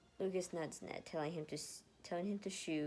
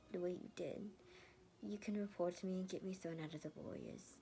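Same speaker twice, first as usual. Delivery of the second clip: mumbled; 3 semitones higher than usual. Acted. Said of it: "she mumbled".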